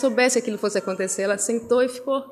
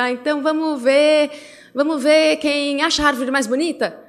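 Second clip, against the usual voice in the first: cheerful suggestion; 5 semitones higher, 3 dB louder than usual. Retold or imitated. Mother proposing new game.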